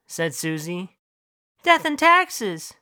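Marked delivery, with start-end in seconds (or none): 1.6-2.7 high, slow, drawn-out pronouncement; slow dog wisdom. Acted. Talking dog gives the class its wisdom, slow and high. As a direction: intone it slowly up high.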